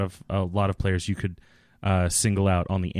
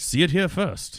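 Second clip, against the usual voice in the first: high, showy ad announcer; 9 semitones higher than usual. Pretend. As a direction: sell it like a movie trailer. Mock movie theater ad.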